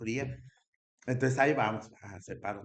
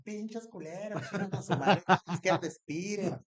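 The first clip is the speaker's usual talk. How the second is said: high, loud angry cursing; furious yelling women being tear-gassed; angry shouting; 9 semitones higher, 7 dB louder than usual. Retold or imitated. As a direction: yell it at the cops through the gas.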